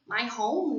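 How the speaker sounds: English "my home" said clearly as a model; English pronunciation. Shown as a demonstration. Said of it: "in an apartment". (pronúncia inglesa de "my home")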